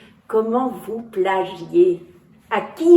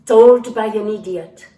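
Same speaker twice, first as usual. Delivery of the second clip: Shakespeare recitation. Acted. Actor opening his show by quoting Macbeth, solemn recitation. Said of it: "William Shakespeare, Macbeth".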